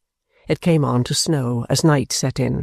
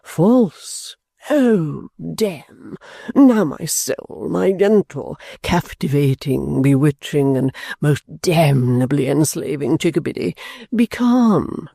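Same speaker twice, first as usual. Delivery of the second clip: Mantalini pleading; slower than usual. Acted. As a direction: coax the angry wife, fawning. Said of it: "said Mister Mantalini humbly".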